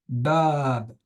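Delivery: "bab" with the a drawn out; long A. Shown as a demonstration. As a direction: prolong the vowel in "bab". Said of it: "c'est avec un A long". (« bab » avec un a très long)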